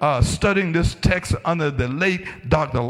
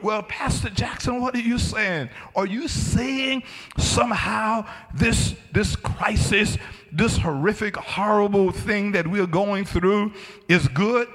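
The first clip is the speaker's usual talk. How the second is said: lightly voiced puzzled objector, higher pitched; questioning congregant; 6 semitones higher than usual. Listener asking the pastor what he is saying, questioning.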